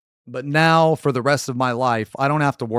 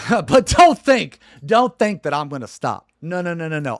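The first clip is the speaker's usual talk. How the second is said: high laughing jeer, louder; laughing taunt; 4 semitones higher, 5 dB louder than usual. Real, not acted. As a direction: taunt him through a laugh.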